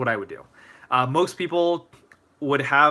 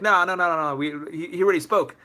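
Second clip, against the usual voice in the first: higher-pitched mock refusal; Mister Swan; 5 semitones higher than usual. Principal saying the speaker has been already, mock dismissive. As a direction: brush them off in a pitched-up voice.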